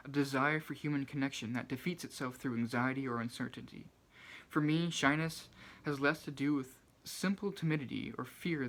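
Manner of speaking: clear, projected reading of an essay passage; measured nonfiction narration; reading aloud. Acted. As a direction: read it out from the book, phrase by phrase. Reads a book quote aloud.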